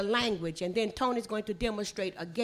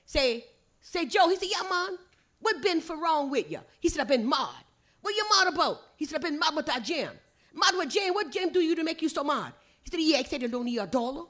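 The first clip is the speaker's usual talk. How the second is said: higher, rapid-fire Gullah dialogue; 5 semitones higher, faster than usual. Shown as a demonstration. Storyteller demonstrating two friends' talk for visitors, in Gullah. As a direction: read it in thick Gullah, "mad" as "mahd". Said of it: "Listen at it in Gullah".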